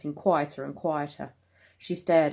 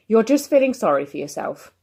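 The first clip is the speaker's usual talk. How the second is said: louder, higher self-reproach; scolding himself; 6 semitones higher, 6 dB louder than usual. Acted. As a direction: scold your reflection. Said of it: "I scolded at my reflection".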